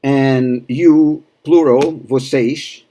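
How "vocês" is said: vocês ending in sh, vo-SEYSH; Rio accent. Shown as a demonstration. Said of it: "from Rio".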